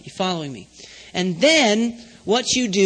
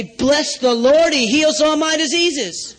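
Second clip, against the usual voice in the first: faith confession; 3 semitones higher, 3 dB louder, slower than usual. Shown as a demonstration. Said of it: "I say".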